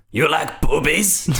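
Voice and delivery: imitating a thick Polish accent; slow mock Polish accent. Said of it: "thick Polish accents".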